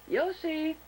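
high-pitched call to a pet. Real, not acted. Calling Yoshi over to the camera.

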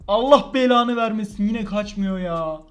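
frustrated anger. Real, not acted. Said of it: "Vallahi sinirlendim şu anda".

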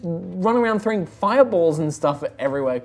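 lightly voiced teenager; slightly high teen protest; Vala. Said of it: "super hyped up teenager".

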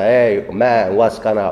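lightly put-on American street English, a casual mock; tossing off a half-hearted American slang impression; a hint of casual American street talk. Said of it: "Amerikan zencisi gibi konuşmaya".

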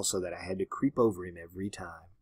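unvoiced, soft and creepy; hushed whisper of the creeping woman; eerie whisper. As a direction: whisper it like a secret. Eerie end of the story.

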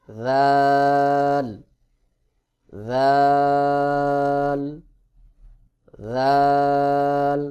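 রাল as a buzzing th (dhaal), tongue tip on upper teeth edges; thin, soft articulation. Shown as a demonstration. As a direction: stretch রাল on one loud level note, thinly articulated. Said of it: "পাতলা করে উচ্চারণ করতে হবে". (পাতলা করে টেনে রাল উচ্চারণ)

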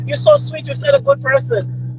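high-pitched retold amazement; soft, high voice of mock disbelief; shocked gratitude. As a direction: imitate her shocked, grateful gushing. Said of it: "She's so shocked".

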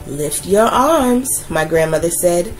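put-on gentle storytelling voice for children; story narration. A narrator's reading. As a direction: read it like a bedtime picture book. Reads a picture book aloud.

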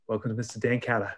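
put-on playful New Zealand accent; a light put-on Kiwi accent. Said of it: "that was a beautiful Kiwi accent there".

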